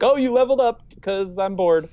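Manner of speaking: high mock bored voice; high, careless, offhand; bored lazy DM. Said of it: "the dungeon master being like".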